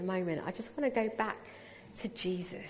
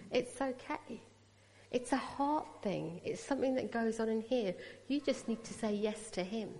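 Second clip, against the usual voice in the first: softer, gentle and kind; gentle reassurance; 5 dB quieter than usual. Retold or imitated. The person comforting the crying Sikh girl, soft and gentle. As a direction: reassure her softly, like a comfort. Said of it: "very kindly and very gently said to me".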